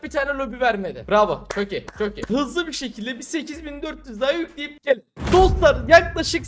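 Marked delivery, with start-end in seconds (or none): 5.3-6.5 calling out. Real, not acted. Streamer calls out to viewers.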